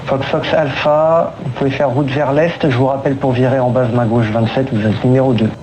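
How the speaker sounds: air traffic control radio. Real, not acted. Controller speaking over cockpit radio.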